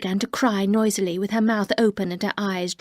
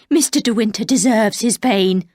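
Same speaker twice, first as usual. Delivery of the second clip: loud and hard; 5 dB louder than usual. Acted. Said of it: "Her voice was loud and hard".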